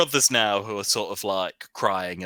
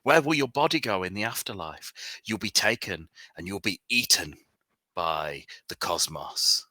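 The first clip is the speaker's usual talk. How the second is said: doom-saying preacher. Acted. Cult preacher warns a sinner about the afterlife, ominous and sermonising. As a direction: pronounce judgement on the sinner, slowing at the end. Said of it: "he points at you and he says".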